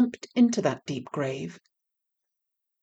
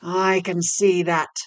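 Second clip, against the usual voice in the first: master devil; 5 dB louder, slower than usual. A narrator's reading. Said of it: "said the master devil".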